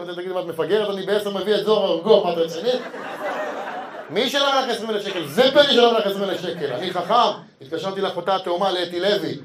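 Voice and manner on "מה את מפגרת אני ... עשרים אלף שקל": mock outrage.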